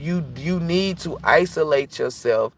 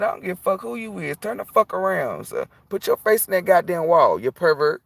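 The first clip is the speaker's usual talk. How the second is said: higher, scolding; mock angry telling-off; 6 semitones higher than usual. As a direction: order him to face the wall. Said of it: "I said".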